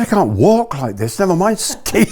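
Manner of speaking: high, laughing complaint; laughing protest. Retold or imitated. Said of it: "I said".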